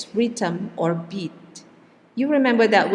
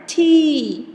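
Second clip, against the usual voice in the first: T said higher and louder; louder stressed syllable; 8 semitones higher, 5 dB louder than usual. Shown as a demonstration. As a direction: punch the syllable T up and out. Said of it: "and louder".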